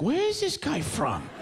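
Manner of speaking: stoned viewer. Retold or imitated. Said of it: "they're like".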